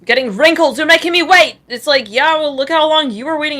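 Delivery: mock indignation. Acts out an impatient woman's complaint.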